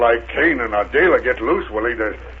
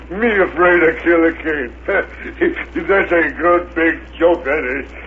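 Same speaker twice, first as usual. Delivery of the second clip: laughing boast; 3 semitones higher, slower than usual. Acted.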